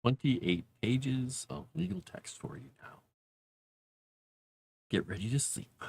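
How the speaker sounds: soft, droning monotone voice. Pretend. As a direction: drone it like boring legal text. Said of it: "I will read in a monotone voice".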